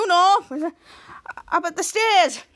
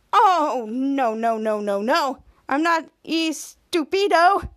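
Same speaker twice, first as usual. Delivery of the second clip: mocking laugh; 4 dB louder, much slower than usual. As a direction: tease her with a chuckle. Ray mocks Charlotte.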